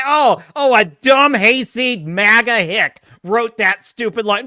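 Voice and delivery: mock-disdainful shill, slow and drawn out; imitated shill. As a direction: scoff slowly as the outraged shill. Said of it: "They'd say".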